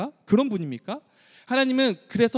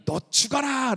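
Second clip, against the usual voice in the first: mock curse; 6 semitones higher, slower than usual. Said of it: "라는 말입니까?".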